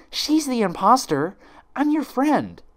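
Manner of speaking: high, loud, slow frantic plea; desperate insisting. Acted. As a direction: make them believe you. Twilight desperate with friends.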